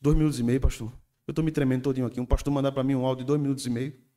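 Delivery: loud, frantic imitation of a scared young man; hammed-up terror over a two-minute voice message; panicked youth. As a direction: blurt it out in mock panic. Youth panics over long audio.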